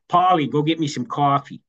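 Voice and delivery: imitated Bronx wife sending her husband off; Bronx accent. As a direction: say it in Bronx speech. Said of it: "they're both from the Bronx".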